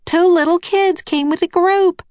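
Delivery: high-pitched, agitated half-shout. A narrator's reading. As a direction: call it out urgently over the radio. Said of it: "Nancy shouted".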